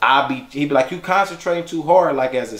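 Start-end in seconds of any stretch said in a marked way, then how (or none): 0.9-2.1 put-on a touch of a higher little-boy voice; young son's voice. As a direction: lightly play the kid telling dad off. Father voices son teaching dance.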